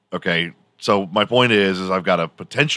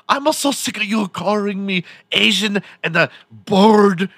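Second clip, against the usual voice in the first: much higher, mock computer voice; caricatured text-to-speech voice; 12 semitones higher, 4 dB louder than usual. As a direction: imitate the robotic voice reading Johnny's lines. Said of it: "most horribly racist caricature of an Asian person".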